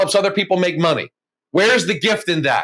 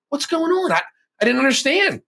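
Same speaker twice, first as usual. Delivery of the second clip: pleading prayer; 8 semitones higher than usual. Retold or imitated. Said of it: "eventually conceding to say, "Okay, God".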